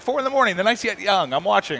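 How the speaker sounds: high, excited mock voice; squeaky excited mock quote. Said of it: "he's like".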